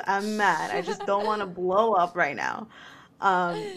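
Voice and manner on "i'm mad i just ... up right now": laughing through words. Retold or imitated. Retold quote laughed through.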